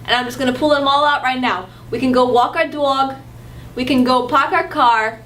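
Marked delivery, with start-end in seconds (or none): 1.9-5.2 put-on dropped r Boston accent, "pahk ah cah"; a hint of Boston. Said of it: "That's Boston".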